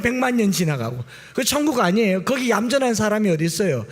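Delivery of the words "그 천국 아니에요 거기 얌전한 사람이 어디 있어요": ordinary delivery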